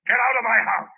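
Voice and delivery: mean every word; angry. Acted. Tenant ordering the policeman out, angry.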